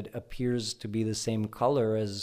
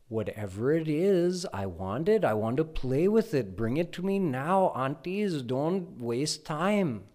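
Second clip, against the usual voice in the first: put-on louder, high little-boy demand, slowing at the end; tantruming child; 4 semitones higher, 4 dB louder than usual. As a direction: order the aunties about like a spoiled toddler.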